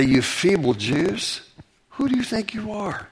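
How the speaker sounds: mock the builders with scorn; mocking indignant. Enemy taunting the wall builders, mocking and indignant. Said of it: "He was mocking in an indignant way".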